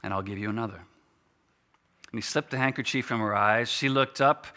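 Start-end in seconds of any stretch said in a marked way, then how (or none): 0.0-0.8 soft, gentle offer; tender promise, a little softer. Acted. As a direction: hand her the words as kindly as the cloth. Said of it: "he said gently".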